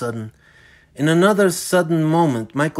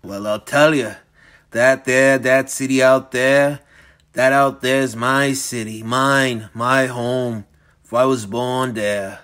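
put-on menacing old villain. Dorian speaking, panting.

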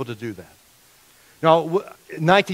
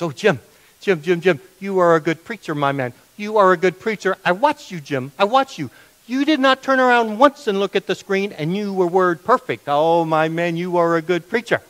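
put-on higher-pitched, emphatic praise in an Indian accent; distinct Indian accent; 5 semitones higher, 3 dB louder than usual. Friend praises the preacher after Easter service, imitated Indian accent. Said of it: "He had a distinct accent".

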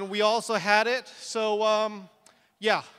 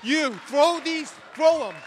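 higher-pitched, flustered orders; freaking out; 4 semitones higher than usual. Retold or imitated. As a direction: direct the guests in a mild comic panic. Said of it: "I'm freaking out because I'm screwed".

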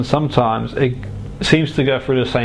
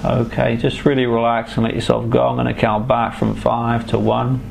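right in your ear. Acted. Hypnotherapist guiding a relaxation trance.

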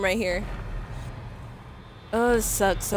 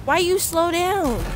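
being chased; 7 semitones higher, slower than usual. Real, not acted. Character slowing during chase.

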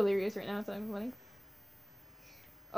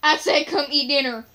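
louder, fast scolding mom; mock mom yell; 7 dB louder, faster than usual. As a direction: pretend mom insisting, raised voice. Pretend mom scolding child.

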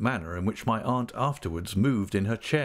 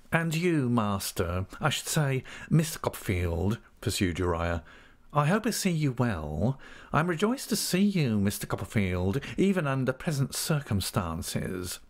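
obsequious clerk, pitched up in swoops; fawning Uriah Heep; 3 semitones higher than usual. Acted. Clerk greets Copperfield, fawning. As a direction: flatter him humbly, swooping higher.

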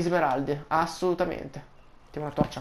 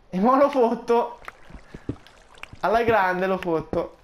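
1 grinta; 5 semitones higher, 3 dB louder, slower than usual. Real, not acted. Affronta il mago, carico.

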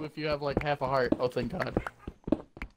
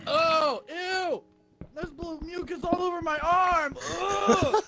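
high grossed-out squeals; disgusted; 9 semitones higher, slower than usual. Real, not acted. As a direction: recoil in disgust, voice jumping high. Grossed out by blue mucus.

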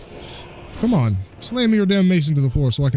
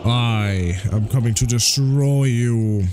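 slow mock threat; much slower than usual. Threatening boss in game.

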